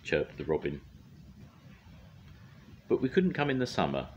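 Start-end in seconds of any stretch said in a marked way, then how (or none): 2.9-4.1 high little bird voice; lightly voiced bird; high thrush voice. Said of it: "said the thrush".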